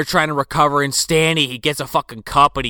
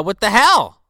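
mock indignation; 6 semitones higher, 4 dB louder than usual. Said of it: "Ollie's pissed".

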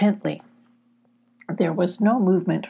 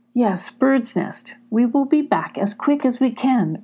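reassuring; 5 semitones higher than usual. Acted. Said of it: "reassured Sylvie".

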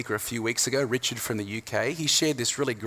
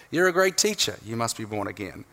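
praise then blunt reply. Retold or imitated. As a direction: lift the praise brightly, then drop flat for the reply. Repeating the contrast of the reply.

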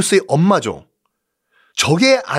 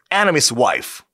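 deliberate Korean-accented English; English phrase in a Korean accent; homemade English pronunciation; 3 semitones lower, much slower than usual. Shown as a demonstration. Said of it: "원어민 발음이 아니라 제 발음이었어요".

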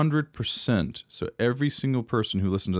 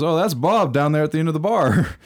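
higher, louder, hammed-up Australian accent; bad Australian accent; 8 semitones higher, 5 dB louder than usual. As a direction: attempt an Australian barman, badly. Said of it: "I can't do an Australian accent".

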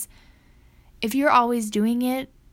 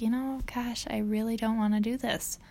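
whispered and much softer, worn out; half-whispered groan of not wanting to; weary whisper; 6 dB quieter than usual. Retold or imitated. Wife tired of chores, soft weary whisper. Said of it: "I'm just like".

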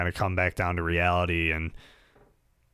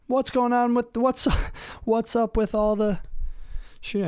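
incredulous outburst. Real, not acted. Exasperated outburst, much higher.

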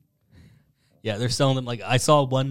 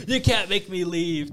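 mock protester; 8 semitones higher than usual. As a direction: lightly voice a stubborn holdout. Retelling the chained man's protest.

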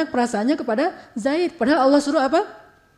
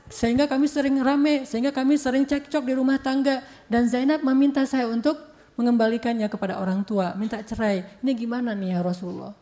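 softly voiced, a touch of Zaid weeping; mild tearful plea; 4 dB quieter than usual. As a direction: confide it sadly, holding back tears. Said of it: "Zaid menangis". (curhat sedih yang lirih)

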